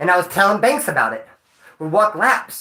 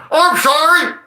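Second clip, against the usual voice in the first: high, blaring mock announcement; exaggerated booming apology; like an intercom; 10 semitones higher, 6 dB louder, slower than usual. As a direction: blurt it loud like over an intercom. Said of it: "like an intercom, like I went".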